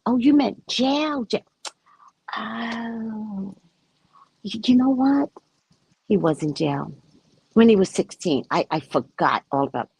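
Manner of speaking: high, excited imitation of a stunned client; mimicking a client shocked at the reading; mock astonished client. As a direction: play the client suddenly remembering. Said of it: "she goes".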